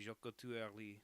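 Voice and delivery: toned-down try at a French accent; retry the line in a tentative French accent; French accent attempt. Shown as a demonstration. Streamer retries the French line after a bad take, tentative French accent. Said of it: "No, that was bad".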